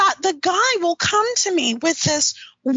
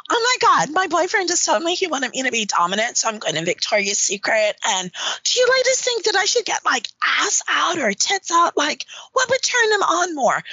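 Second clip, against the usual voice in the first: lightly voiced eager woman asking online; quick, swooping imitation of a girlfriend seeking advice; put-on girlfriend voice. Woman asking forum ladies how to please her boyfriend, put-on voice. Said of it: "I'm gonna put on my voice".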